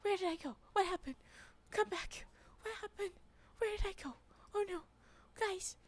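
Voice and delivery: high, loud panicky calling out; alarmed surprise. Real, not acted. Vanished streamer calling out to chat in alarm. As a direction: shout for help as if lost.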